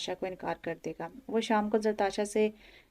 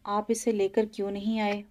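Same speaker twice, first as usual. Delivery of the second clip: tearful; 3 semitones higher, 6 dB louder than usual. A narrator's reading. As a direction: push the question through tears. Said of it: "वो अपने आंसू पूछते हुए बोली".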